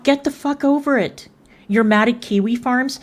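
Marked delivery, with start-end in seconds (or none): 0.0-1.3 exasperated. Real, not acted. Angry rant at a rival.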